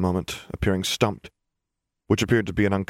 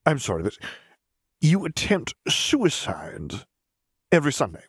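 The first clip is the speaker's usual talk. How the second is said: incredulous man; 8 semitones higher than usual. A narrator's reading. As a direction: stammer it out, thrown off balance.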